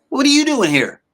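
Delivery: high, surprised yelp of a question; startled question. Retold or imitated. Dax spots a lookalike of a singer, asks in high startled voice.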